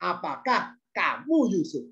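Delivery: slow, lofty questioning; mildly condescending, drawn-out question; feeling superior. Acted. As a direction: look down on the person while asking. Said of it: "intonasi kata-kata apakah itu sambil merasa".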